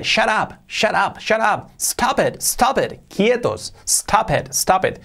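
high-pitched, dismissive repeated commands. Acted. Teacher acting Homer telling everyone to stop, high and dismissive.

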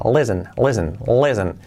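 LISTEN as "lessen", falling; silent T. Shown as a demonstration. Teacher repeats escuchar in English, silent T. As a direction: drill "listen" with the t dropped. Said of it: "la T no se pronuncia nunca".

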